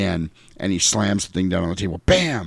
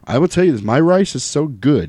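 George Clooney voice; 6 semitones higher than usual. Shown as a demonstration. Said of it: "I'm talking like George Clooney".

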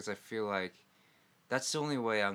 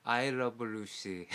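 slow drawn-out title; slower than usual. Retold or imitated. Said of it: "I'd say, like".

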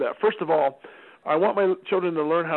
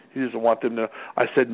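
ordinary talk, nothing marked

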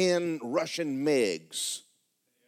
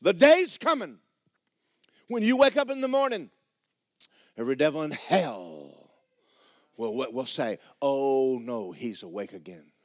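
prophet's words, quoted; 3 dB louder than usual. Retold or imitated. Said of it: "You know what she said to me?".

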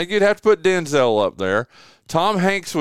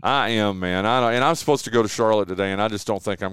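feeling sick; 6 semitones lower than usual. Real, not acted. Host telling guest he feels sick this morning. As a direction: drag through it, unwell. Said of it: "I don't feel good".

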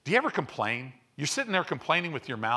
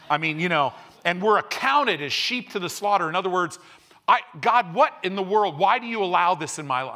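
hammed-up self-pity, louder as it goes; mock whiny complainer; 5 semitones higher, 6 dB louder than usual. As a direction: whine it out like a sorry victim. Mocking a complaining believer.

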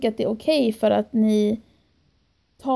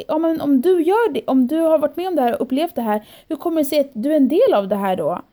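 retold angry challenge; 4 semitones higher than usual. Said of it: "och jag blev så arg".

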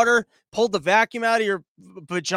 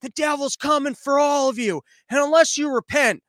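higher-pitched imitation of a street preacher; mildly raised voice, mimicking a man yelling a warning; half-hearted fire-and-brimstone shout; mock preacher yell; 5 semitones higher, 3 dB louder than usual. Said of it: "yelling at the top of his lungs".

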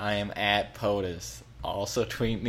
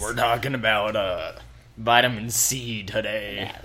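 pirate voice. Pretend. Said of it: "giving out as I try to do that voice".

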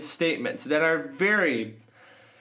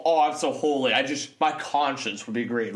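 mock pious voice; 6 semitones lower than usual. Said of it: "let's not make this all".

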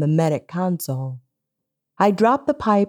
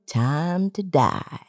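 slow, quiet sneer; 4 dB quieter, slower than usual. Acted. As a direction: savor the threat slowly. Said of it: "he sneered".

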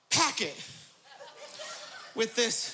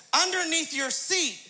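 flight attendant; slower than usual. Retold or imitated. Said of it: "she says".

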